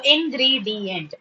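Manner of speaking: "ingredient" drawn out as in-gree-di-ent; four slow beats on "ingredient"; syllable by syllable. Shown as a demonstration. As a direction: break "ingredient" into clear syllables. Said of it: "four syllables".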